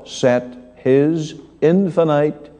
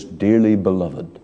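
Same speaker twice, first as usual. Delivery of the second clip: low, gentle pastoral "Dearly beloved"; 5 semitones lower than usual. Retold or imitated. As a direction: say it tenderly like a shepherd to his flock. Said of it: "Peter deals with them very gently".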